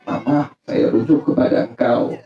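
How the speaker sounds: low, soft husband's declaration; lightly voiced husband. Husband taking his wife back, lightly voiced, low. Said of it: "Laki bilang apa?".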